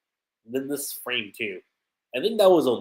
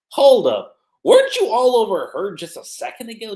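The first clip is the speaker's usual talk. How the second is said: mock retort; 9 semitones higher, 9 dB louder than usual. Natsu retorting.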